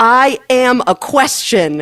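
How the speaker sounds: put-on bold, self-assured, loud and confident delivery. Retelling a hospital visit, the speaker repeats what they said to a staff member: retelling a very loud line. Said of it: "I said in German very loudly".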